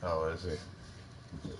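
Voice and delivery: low slow hush so he stays asleep; soft and slow, almost a murmur. Real, not acted. Son asleep nearby.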